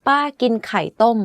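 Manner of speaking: "ป้ากินไข่ต้ม" with ป้า and ต้ม going up then down; falling tone at both ends. Shown as a demonstration. Teacher contrasting tones for learners, falling tone on ป้า and ต้ม in "ป้ากินไข่ต้ม". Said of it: "first and the last word ... in falling tone".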